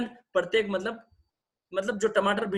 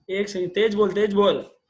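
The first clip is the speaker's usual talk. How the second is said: raised voice to a faint caller; louder, pushing to be heard on the call; firm call to speak up; calling out over bad line; 6 dB louder than usual. Real, not acted. Caller can't be heard on phone.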